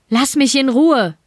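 high, desperate shout while fleeing; panicked cry at the pursuer. Acted. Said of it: "schrie Mike seinem Verfolger entgegen".

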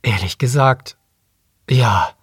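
hesitant, with pauses between phrases; slowly. A narrator's reading. Guest admitting his view to the waitress, slowly. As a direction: admit it haltingly. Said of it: "sagte Remy langsam".

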